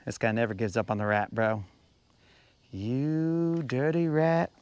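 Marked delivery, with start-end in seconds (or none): 2.7-4.5 mock gangster. Mock gangster line to the rat.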